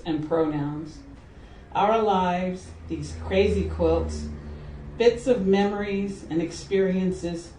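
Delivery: measured recital with pauses between phrases; poem reading. Acted. Poet reading Crazy Quilt for Ben to listeners, measured recital. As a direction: let each image stand in its own short phrase. Reads her poem aloud.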